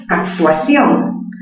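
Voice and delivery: slow example. Shown as a demonstration. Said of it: "Actuación tiene la mayor fuerza".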